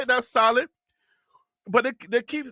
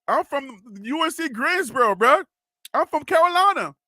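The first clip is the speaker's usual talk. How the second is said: higher-pitched teasing imitation; mock boast; 4 semitones higher than usual. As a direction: play a proud Southerner for laughs.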